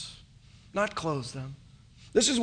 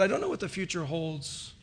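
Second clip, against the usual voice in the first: calm reply; 2 semitones lower, 6 dB quieter than usual. Retold or imitated. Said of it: "looked at me very calmly and said".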